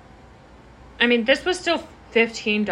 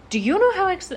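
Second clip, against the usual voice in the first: put-on a botched German accent that slips into Scottish, pitched higher; failed German accent; 9 semitones higher, faster than usual. Retelling the subway German lady to a friend, botched German-Scottish accent. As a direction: try a German accent and let it slide toward Scottish. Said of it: "I can't do a German accent. That was more Scottish".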